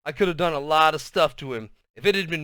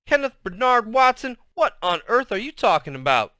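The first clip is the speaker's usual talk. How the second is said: stern mother; 7 semitones higher, 3 dB louder than usual. A narrator's reading. Mother scolds with full name.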